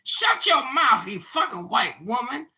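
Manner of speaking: high, loud imitated screaming rant; mock yelling. Retelling a woman yelling at Joe B, mock screaming. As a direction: shriek it like an enraged online troll. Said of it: "yelling at Joe B and saying".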